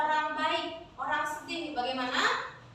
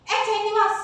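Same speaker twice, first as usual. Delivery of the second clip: mild fierce scolding, louder and higher; 5 semitones higher, 5 dB louder, faster than usual. Shown as a demonstration. Teacher models Men Sugih's line for pupils, fierce. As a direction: demonstrate a stern, galak character. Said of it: "Intonasinya men sugih kan galak".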